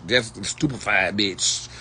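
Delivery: mock spell voice. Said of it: "That's that Harry Potter language you speaking".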